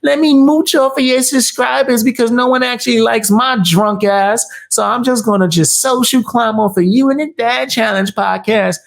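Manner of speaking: high, whiny voice mocking the rival as a beggar. Mocking his rival's begging in a high whine. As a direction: whine it like a needy leech.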